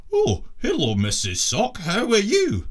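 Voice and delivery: squeaky puppet show greeting; sock puppet voice. Acted. Captain doing a sock puppet voice for his crew. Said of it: "doing the voices".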